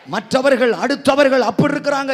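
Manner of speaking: ordinary talk, nothing marked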